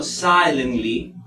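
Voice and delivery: silently, stressed on the first syllable; silently with a strong first beat. Shown as a demonstration. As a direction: lean on the opening of silently. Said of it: "Mayor fuerza de voz en si".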